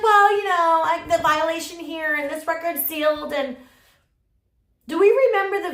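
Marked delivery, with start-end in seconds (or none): 0.0-3.3 hammed-up dodging voice; mocking Jessica. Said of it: "She's like".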